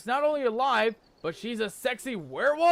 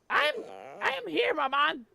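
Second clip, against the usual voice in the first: put-on a much higher boy's voice, timid; child's voice; 7 semitones higher than usual. Young Ufe answering his worried mother, high and timid. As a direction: answer your mum like a small boy.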